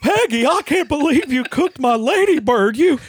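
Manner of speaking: anguished cry. Acted. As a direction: cry out in horror at her. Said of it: "Hank cried".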